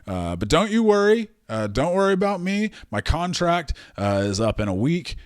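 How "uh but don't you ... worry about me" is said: high, sweet mock reassurance. Kaiser soothing the dangerous boss, hammed-up sweet reassurance. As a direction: soothe him, pitched high and sugary.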